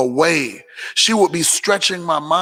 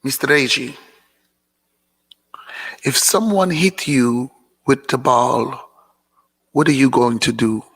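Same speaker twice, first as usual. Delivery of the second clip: imitating counselor; 4 semitones lower than usual. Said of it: "she would say stuff like".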